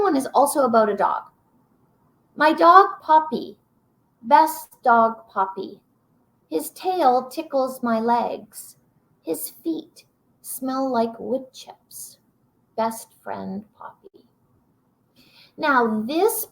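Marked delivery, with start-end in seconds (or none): 2.4-14.3 slow poem reading. Acted. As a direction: savour each line like reading to kids. Reads the Poppy poem aloud.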